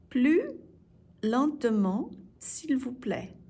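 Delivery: "Plus", pause, "lentement", pause, "s'il vous plaît"; broken into chunks. Shown as a demonstration. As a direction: separate each part of Plus lentement for learners. Teacher breaks phrase up for learners.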